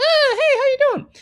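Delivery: light head-voice register. Teaching a listener about screaming in a new register: head voice demo. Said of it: "This is called your head voice".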